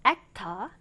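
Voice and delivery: British "actor" with the final R left silent; dropped final R. Shown as a demonstration. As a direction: say "actor" ending in an open vowel, no R. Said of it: "단어 맨 끝에 오는 R 발음을 생략하고".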